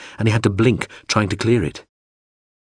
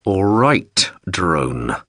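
through clenched teeth; much slower than usual. Acted. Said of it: "said through clenched teeth".

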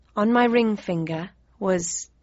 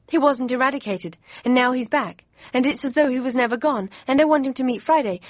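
babbling excitedly; 4 semitones higher than usual. Acted. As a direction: tumble the words out with joy. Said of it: "I babbled excitedly".

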